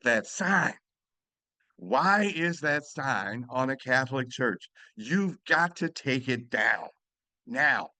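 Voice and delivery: slow, hesitant, shaken plea; a retold woman's halting, tearful plea. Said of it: "she said with halting voice".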